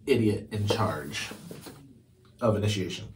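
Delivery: soft whispered jab, slowed down; whispered aside. Real, not acted. Reader whispering a cheeky aside about Goober. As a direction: lean in and whisper it.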